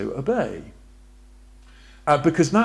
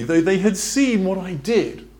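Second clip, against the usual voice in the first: higher and louder, stressing seen; emphatic preaching; 5 semitones higher, 5 dB louder than usual. Shown as a demonstration. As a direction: drive the line home to the congregation. Rereading the verse with force.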